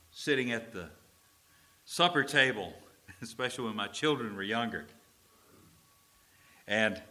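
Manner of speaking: ordinary delivery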